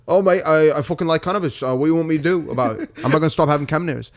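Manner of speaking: lightly mocked British accent. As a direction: imitate a British talk-show guest. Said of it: "because it's accents, and accents are funny".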